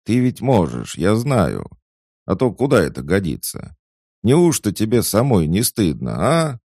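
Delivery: high, loud, insistent coaxing; coaxing reproach. A narrator's reading. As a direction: shame a pupil into trying. Maid coaxing and chiding the doll. (настойчивые уговоры с укором)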